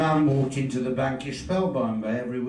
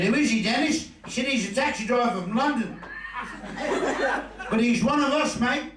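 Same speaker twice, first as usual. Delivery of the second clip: laughing through the punchline; 11 semitones higher than usual. Retold or imitated.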